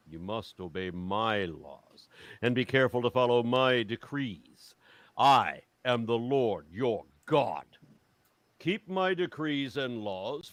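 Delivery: slow, weighty Bible reading with long pauses; solemn scripture reading. Acted. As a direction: proclaim God's law, leaning hard on key words. Reads Leviticus as scripture.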